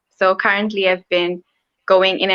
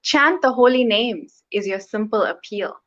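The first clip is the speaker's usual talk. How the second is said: poem reading. Acted. Poet reading her poem about Lord Chaitanya, measured recitation. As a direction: read it line by line, with pauses after phrases.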